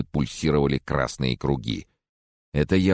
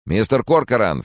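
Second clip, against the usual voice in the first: raised, louder calling; urgent call; 7 semitones higher, 6 dB louder than usual. Acted. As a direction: snap him out of it. Francis shaking him.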